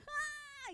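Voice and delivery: high, far-off imitated child's shriek; a child's wailing cry, imitated; imitated scream. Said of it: "nangisnya dia berjerit". (jeritan anak yang ditirukan, tinggi melengking)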